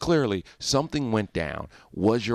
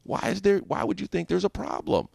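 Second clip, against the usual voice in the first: imitating a rapper; 9 semitones higher than usual. Host mimicking a rapper brushing off the question, mock innocent. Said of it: "And he says".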